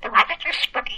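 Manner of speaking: budgie reciting in Geordie; squawky little bird with a Geordie accent. Real, not acted. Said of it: "say in a Geordie accent".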